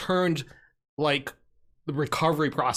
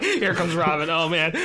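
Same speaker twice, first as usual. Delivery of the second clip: laughing; 4 dB louder than usual. Retold or imitated. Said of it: "you're like".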